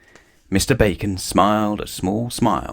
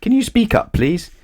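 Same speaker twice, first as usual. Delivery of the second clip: pretending not to hear; 13 semitones higher than usual. A narrator's reading. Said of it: "putting her hand to her ear".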